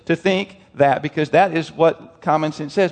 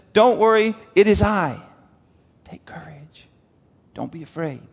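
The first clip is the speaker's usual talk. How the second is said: reassuring hush. Acted. Jesus voiced, fading to whisper.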